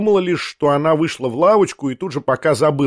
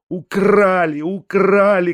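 higher panicked cry, a little louder; mild narrated panic, higher pitch; desperate shout; 5 semitones higher, 3 dB louder, slower than usual. A narrator's reading. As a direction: cry out in alarm, higher each time. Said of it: "кричал я".

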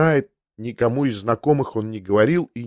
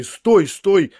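urgent call; 6 semitones higher than usual. Acted. Grabbing Liza as she leaves.

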